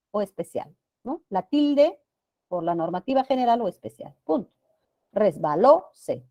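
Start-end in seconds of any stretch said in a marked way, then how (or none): 5.1-6.2 "Resbaló, se" with the stress on LÓ. Shown as a demonstration. Teacher showing students a grave word, stress on LÓ in "Resbaló, se". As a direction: lean on LÓ in "Resbaló, se", then a light "se". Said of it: "Grave que termina en vocal".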